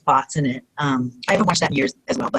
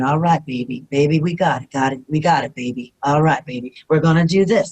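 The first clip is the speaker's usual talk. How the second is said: calming; 3 semitones lower than usual. Retold or imitated. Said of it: "making you calm".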